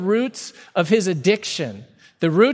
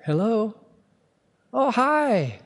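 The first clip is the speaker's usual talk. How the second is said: higher, bright switch from anger to polite; sudden sweet phone voice; 5 semitones higher, slower than usual. Retold or imitated. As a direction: snap into a polite phone greeting. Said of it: "I was like".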